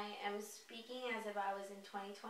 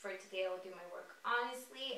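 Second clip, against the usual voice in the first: reciting precepts. Acted. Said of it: "five original Reiki precepts".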